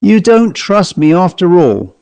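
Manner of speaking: high-pitched plaintive complaint; hurt, plaintive Cockney servant. A narrator's reading. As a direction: sound wounded at being mistrusted. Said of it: "he said plaintively".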